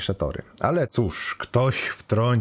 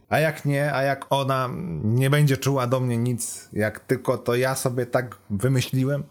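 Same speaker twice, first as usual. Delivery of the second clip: higher, mildly worried questioning; a hint of self-doubt, pitched up; lightly voiced anxious student; 6 semitones higher than usual. Student fears she feels nothing for him, lightly anxious.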